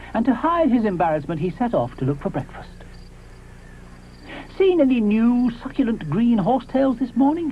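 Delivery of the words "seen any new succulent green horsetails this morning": high friendly dinosaur voice; breezy, changing the subject; cheerful Moschops. Acted. Moschops asks Ally about breakfast, high breezy voice.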